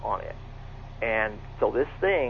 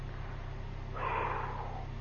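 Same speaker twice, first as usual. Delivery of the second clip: a long, breathless sigh of dread; a shaky reenacted exhale; reenacted heavy sigh; 15 dB quieter than usual. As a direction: let out the air like your stomach just dropped. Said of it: "and I went".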